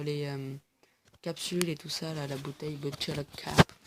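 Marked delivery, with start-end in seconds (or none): 2.8-3.7 clumsy French-accented English; bad English accent. Real, not acted. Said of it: "Mon magnifique accent anglais. Tout pourri". (accent anglais tout pourri)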